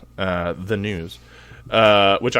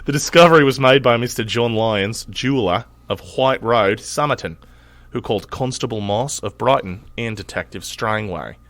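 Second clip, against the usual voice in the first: mild Australian accent. Shown as a demonstration. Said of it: "my shittiest Australian accent".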